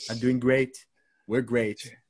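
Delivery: a hint of a boastful Trump; lightly voiced Trump. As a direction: brag like Trump at a debate. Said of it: "Should I do my Trump voice".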